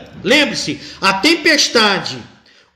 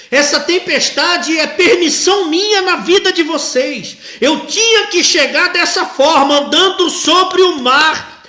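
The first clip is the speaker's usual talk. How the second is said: voicing Jesus; 5 semitones higher, 4 dB louder than usual. Preacher voices Jesus speaking.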